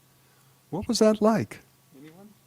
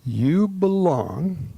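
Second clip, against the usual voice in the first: slow, tender; much slower than usual. Shown as a demonstration. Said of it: "Here's what you're gonna say to your partner".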